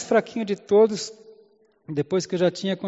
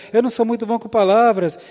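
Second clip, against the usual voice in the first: whining Moses; 5 semitones higher, 5 dB louder than usual. Acted. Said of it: "Êxodo quatro dez".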